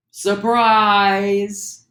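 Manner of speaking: wide open, high and loud surprise; surprised. Shown as a demonstration. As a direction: gasp it out, wide-eyed surprise. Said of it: "be so surprised".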